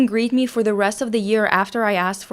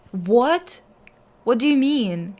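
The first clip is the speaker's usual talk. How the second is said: higher, baffled questioning; confused; 3 semitones higher, 3 dB louder than usual. Real, not acted. Questioning a shocking detail about a teacher's wife, confused. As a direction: ask it in startled confusion. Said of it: "I'm confused".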